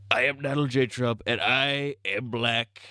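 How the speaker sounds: a hint of Trump; Trump impression. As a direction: mimic Trump with a boastful drawl. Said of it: "in Trump's voice".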